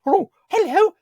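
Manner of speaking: very high, loud falsetto; hammed-up high-pitched hellos, breaking into silly squeals. Actor trying tree voices on a director, falsetto. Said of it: "don't want falsetto".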